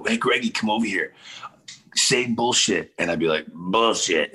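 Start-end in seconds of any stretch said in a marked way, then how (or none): 0.0-2.9 lightly voiced schoolkids, pitched higher; a hint of goading older kids; eighth graders egging on. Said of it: "all the eighth graders would go". 3.5-4.3 lightly imitated low frog voice; a hint of a kid's froggy croak. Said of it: "I had this crazy low frog voice".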